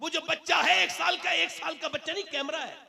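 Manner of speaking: high-pitched, exclaiming sermon delivery. Real, not acted. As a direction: drive each point home to the crowd. Preaches in raised voice. (ऊँचे सुर में जोशीली तकरीर)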